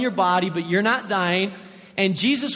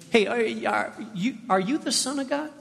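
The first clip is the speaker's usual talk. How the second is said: a sly tempter needling his target with questions; questioning devil. Acted. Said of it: "the questioning tone of the enemy".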